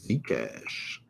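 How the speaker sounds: very soft, low murmur; half-said to himself, dropping away; muttered under breath. Real, not acted. Says ticker under breath first.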